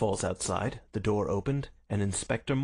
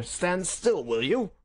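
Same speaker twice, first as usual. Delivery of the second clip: raised police order, high at the start; urgent command; 9 semitones higher, 4 dB louder, slower than usual. A narrator's reading. Inspector handcuffing a prisoner, sharp raised command. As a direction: order a struggling man to hold still.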